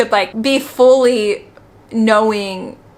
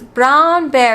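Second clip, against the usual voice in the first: imitating a child's slow Italian-accented English; mock Italian-accented English, stretched; 3 semitones higher, 4 dB louder than usual. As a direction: draw it out with a light Italian accent. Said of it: "with an Italian accent".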